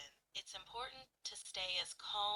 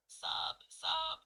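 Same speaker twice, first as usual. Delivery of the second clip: mock sobs; 8 semitones higher, 5 dB louder than usual. Shown as a demonstration. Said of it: "like sob".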